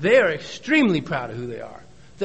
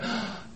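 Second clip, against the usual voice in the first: demo deep breath; 6 semitones higher, 11 dB quieter than usual. Shown as a demonstration. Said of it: "Took a deep breath".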